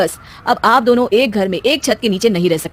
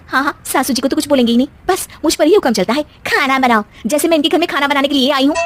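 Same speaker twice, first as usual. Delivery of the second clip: a touch higher, sulky muttering complaint; grumbling daughter-in-law; 4 semitones higher than usual. Acted. Daughter-in-law grumbling about her husband on the way to the kitchen. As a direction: grouse to yourself while walking off.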